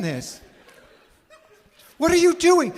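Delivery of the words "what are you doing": calling out. Acted. Parent calling upstairs.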